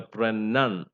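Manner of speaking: pronun with some weight on nun; secondary stress on NUN. Shown as a demonstration. Teacher shows secondary stress, weight on nun in pronun. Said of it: "give a secondary stress".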